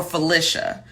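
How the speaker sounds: "Felicia" with a short I in the middle. Shown as a demonstration. Checking a viewer's name, short-I "Felicia". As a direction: say "Felicia" as fuh-LISH-uh. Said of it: "I know there's a difference".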